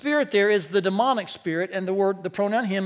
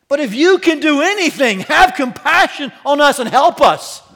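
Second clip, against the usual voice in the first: loud, raised-pitch desperate begging; desperate plea; 6 semitones higher, 12 dB louder than usual. Acted. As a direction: cry out like a father begging for help. Desperate father's plea, acted out.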